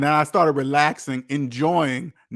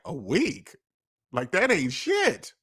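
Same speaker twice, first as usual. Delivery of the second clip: dismissive scoff; slower than usual. Retold or imitated. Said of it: "They gave me this look like".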